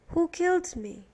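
lightly voiced dying man demanding the answer; Roland Weary. A narrator's reading. Dying Weary's repeated question.

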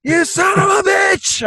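high, elated mock-laughing shout; whoop-laughing, drawn-out holler; laughing yell. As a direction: cackle and holler it in disbelieving delight. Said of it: "I just start laughing".

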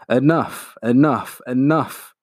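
half-roared plea to stop; mild roar. Acted. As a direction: dragon begging the Iron Man to stop, mild roar. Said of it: "he roared".

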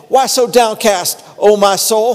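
a touch of David rousing his own soul; quoting the psalm. Retold or imitated. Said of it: "start out some of these psalms saying".

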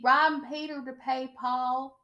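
toned-down imitation, no shouting; Sutton impression. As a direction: imitate her with a level, measured delivery. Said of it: "That's how she sounds".

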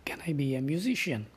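hushed whisper. Acted. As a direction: breathe the question. Wondering to himself.

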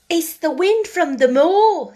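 put-on a girl showing off her Yorkshire; broad Yorkshire. A narrator's reading. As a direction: lay the Yorkshire on thick. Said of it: "She said it as broadly as she could".

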